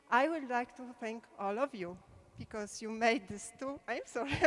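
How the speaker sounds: nervous voice, trembling a little; steady voice with shaky moments. Real, not acted. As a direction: voice shaking with emotion. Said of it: "my, my voice is shaking".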